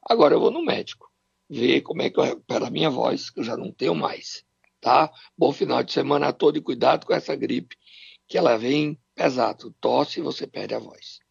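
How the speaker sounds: hoarse, strained sore-throat voice; voice giving out. Real, not acted. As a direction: force the words out with little voice left. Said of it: "Eu até agora não tenho voz".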